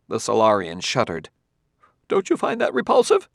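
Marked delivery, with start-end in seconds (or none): 2.1-3.3 raised voice, a hint of disgust; lightly voiced squeamish scholar. A narrator's reading. Quemot disgusted.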